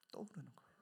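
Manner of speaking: soft whisper; whispered echo. Real, not acted. Preacher echoing his point to congregation, whisper. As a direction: breathe the repeat. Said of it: "echo whispered".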